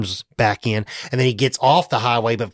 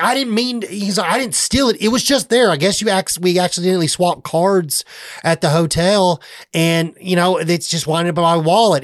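high, flustered excuse voice; lightly voiced sheepish salesman making excuses; mock defensive Dell; 5 semitones higher than usual. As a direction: talk your way out of it, pitched up. Dell quoted defending himself.

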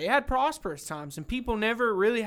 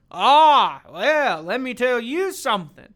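loud, higher bluster; mock drunk rant; 5 semitones higher, 9 dB louder, slower than usual. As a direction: launch into a tirade. Drunk man starting to rant.

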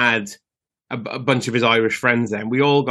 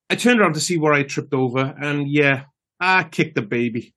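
put-on Irish accent. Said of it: "I will do the Irish accent for, for the punchline".

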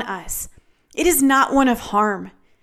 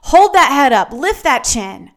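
loud, emphatic urging; firm, raised-voice encouragement; rousing exhortation; 5 dB louder than usual. Acted. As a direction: punch it out to lift them up. Urges the ashamed to stand tall.

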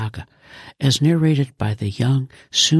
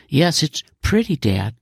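put-on bright, lightly raised girl voice; a pleased daughter approving; beaming girl; 4 semitones higher than usual. Daughter telling her dad the car is pretty, beaming.

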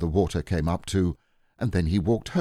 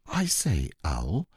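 eager Christopher Robin; slower than usual. Acted. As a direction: pipe up eagerly as a boy.

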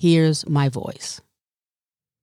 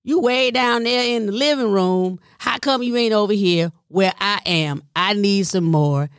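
mild imitation of mom; 2 semitones higher than usual. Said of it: "She was saying".

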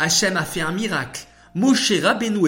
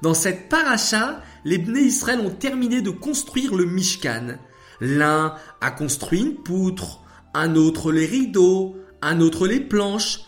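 récit de fillette, haut perché et animé; très enthousiaste; 5 semitones higher, 4 dB louder than usual. Acted. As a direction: raconter avec l'entrain d'une enfant qui connaît sa leçon. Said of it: "déclara Shaina très enthousiaste". (voix d'enfant enthousiaste)

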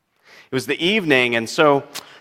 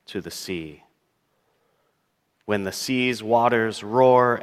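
psalm reading. Acted. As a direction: read the psalm line by line, letting phrases settle. Reads a psalm aloud in sermon.

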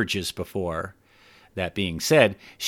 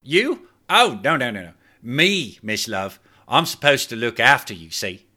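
higher, flustered, sheepish voice; sheepish Clive; 4 semitones higher than usual. Acted. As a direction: backpedal with a sheepish grin. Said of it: "he answered with a sheepish grin".

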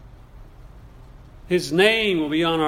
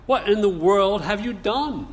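indignant question; 5 semitones higher than usual. Acted. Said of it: "the force of the original here".

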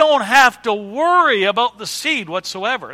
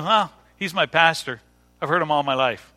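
low, matter-of-fact shrug of a reply; understated, lowered, nothing-special delivery; unimpressed; 3 semitones lower, 3 dB quieter than usual. Retold or imitated. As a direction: imitate someone with no wow factor. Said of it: "there's no wow factor for him".

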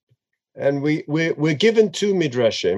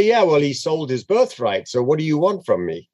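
dismissive shrug; faster than usual. Retold or imitated. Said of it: "And you could say".

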